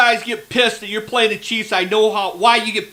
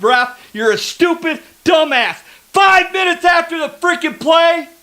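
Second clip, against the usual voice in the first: furious fan shouting at the refs; real outrage at a bad call; angry yelling; 3 semitones higher than usual. Real, not acted. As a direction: yell it out at the TV, fed up.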